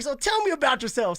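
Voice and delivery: lightly rasped question; raspy voice. Retold or imitated. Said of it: "weird raspy voice".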